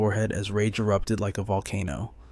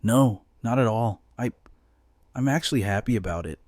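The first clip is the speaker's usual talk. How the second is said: nervous stammered reply; stammering. Acted. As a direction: trip over the words, flustered. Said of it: "stammering out a reply".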